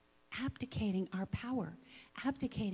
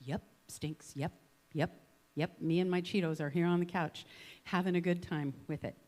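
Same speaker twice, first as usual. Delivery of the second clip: flat resignation; 4 semitones lower than usual. Retold or imitated. Mock couch potato resigned.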